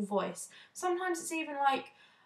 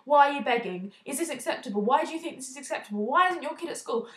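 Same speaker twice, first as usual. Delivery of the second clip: raised, pushy questions, half-acted; imitating a reporter grilling people in the street with a raised voice; mock interrogation; 3 semitones higher, 4 dB louder, faster than usual. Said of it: "raised his voice and just bombarded them with interrogative questions".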